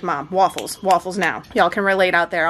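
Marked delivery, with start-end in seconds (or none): 0.0-1.4 lower, lightly voiced kid demanding waffles; a hint of a hungry boy insisting; impatient son. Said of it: "He's like".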